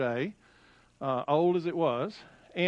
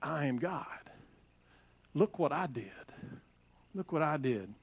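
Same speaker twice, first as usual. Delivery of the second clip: voice of creation; 4 semitones lower, 7 dB quieter than usual. Retold or imitated. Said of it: "it just screams".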